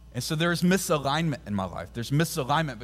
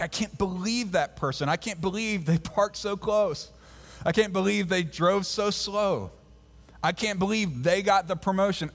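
higher, exasperated mock griping; mock complaining; 3 semitones higher than usual. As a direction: whine like a fed-up driver stuck in traffic. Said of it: "We're like".

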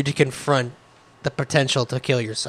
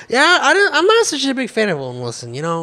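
hesitant coworker; 4 semitones higher than usual. Pretend. Acting hesitant coworker reply.

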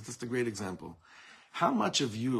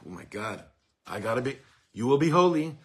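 anxious gasp rising to a loud cry; panicked; 8 dB louder than usual. Pretend. Teacher voicing a panicked student, anxious. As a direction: hear it as a frightening order.

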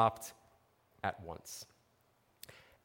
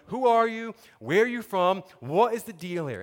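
higher, louder interrogating questions; grilling; 5 semitones higher, 4 dB louder than usual. Acted. Sailors interrogating Jonah on the boat, grilling him. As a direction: fire questions at him, lightly acted. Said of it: "they're grilling him".

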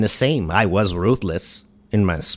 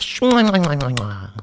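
blown kisses; 5 semitones higher than usual. Acted. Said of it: "smooch the sky while you laugh".

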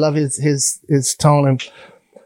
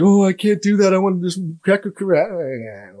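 mock prissy voice; 4 semitones higher than usual. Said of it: "I'm not like".

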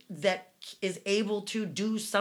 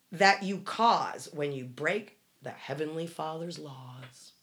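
preachy quote; 3 dB louder, slower than usual. Retold or imitated. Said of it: "here's a preview".

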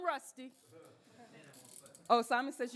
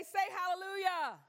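calling out; 5 semitones higher than usual. Acted. Leading the congregation call.

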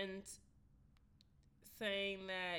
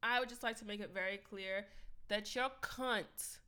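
overacted anime dub. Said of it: "I sound like a fucking anime character".

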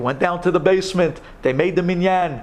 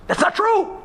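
protesting. Retold or imitated. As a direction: cut in to deny it. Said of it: "looks at him and says".

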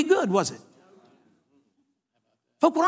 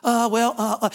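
imitating a flustered stammer; halting mock hesitation; verbal backpedaling. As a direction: hem and haw as if caught out. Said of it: "Backpedaling verbally".

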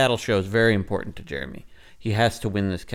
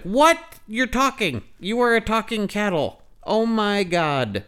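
pitched way up in amazement, slow at the end; high astonished shriek; 12 semitones higher, 4 dB louder, slower than usual. Retold or imitated. Jeremy freaking out at the talking cattle, high astonished shriek. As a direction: gasp out the shock of a talking animal. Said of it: "And he's like".

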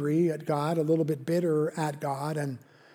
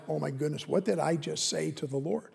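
softer, embarrassed gasp of regret; sheepish dismay; 2 semitones lower, 7 dB quieter than usual. Retold or imitated. Believer realising what they said to God, softer. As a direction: say it as if just caught out. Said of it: "the answer is like".

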